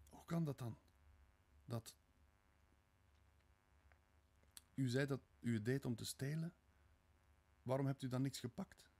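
tentative, confused questioning; puzzled Sonja. A narrator's reading. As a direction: ask it haltingly in a high voice.

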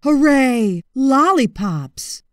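loud excited shout; shouted hooray. Acted. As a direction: cheer like a gang of happy crocodiles. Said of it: "A whole chorus of voices shouted".

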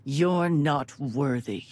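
very slow, each word weighed; a daughter's slow, icy verdict on her father; cold contempt. Acted. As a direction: pass judgement slowly and coldly. Daughter condemns her villainous father.

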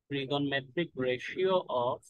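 trigonometric ratio spelled out very slowly, falling at the end; slow dictation. Shown as a demonstration. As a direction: dictate trigonometric ratio word by word, letting it fall. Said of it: "slow dictation of the chapter topic".

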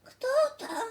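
high-pitched frail granny voice; weak grandma. Acted. Sick grandma answering a knock, weak high voice. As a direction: call out thinly like an ailing grandma. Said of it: "zapytała słabym głosem babcia".

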